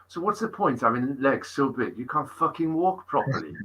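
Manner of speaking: comic put-on Welsh accent; mock Welsh accent. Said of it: "Welsh, Welsh he was as well".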